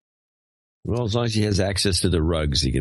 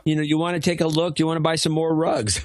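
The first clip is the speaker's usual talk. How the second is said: put-on Turkish accent; 5 semitones higher than usual. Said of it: "it's always in this Turkish accent".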